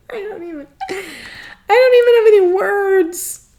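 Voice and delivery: overwhelmed and lost for words; tearful, high and breaking; choked up. Real, not acted. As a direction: voice cracking with tears, words breaking. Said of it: "I'm getting emotional".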